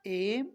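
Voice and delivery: एम with a long gliding vowel; same-way M. Shown as a demonstration. Teacher modelling M likewise, drawn-out एम. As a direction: stretch the vowel before म in एम. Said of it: "इसी तरह से".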